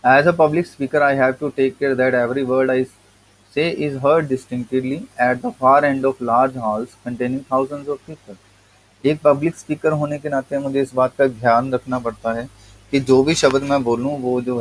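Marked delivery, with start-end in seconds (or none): 0.0-8.4 reading the essay slowly, word by word; slow text reading. Acted. Teacher reading the English essay to students, slow and deliberate. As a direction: read each word out to the class.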